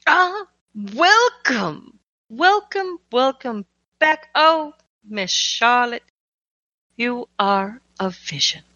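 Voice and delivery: hammy curator greeting, slow and high; magically amplified voice; booming voice. Acted. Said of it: "you will hear the booming voice".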